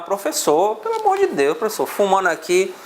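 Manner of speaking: exasperated plea, pitch leaping mid-phrase; mock complaining students. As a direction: imitate pupils pleading in protest. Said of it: "a gente ia reclamar".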